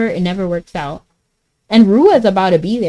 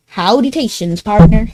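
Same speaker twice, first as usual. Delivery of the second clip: put-on playful cowboy-style country accent; 4 dB louder than usual. Streamer greeting chat as partner, country accent. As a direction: put on a country accent, punch the last word. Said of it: "a country accent".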